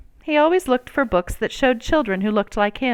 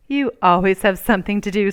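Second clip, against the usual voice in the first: smiling; 4 dB louder, faster than usual. Acted. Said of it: "said his mother with a smile".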